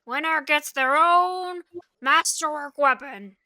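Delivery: lightly voiced gruff British goblin; small gruff voice. Game master's goblin announcing the prize, mildly gruff. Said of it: "small, gruff voice".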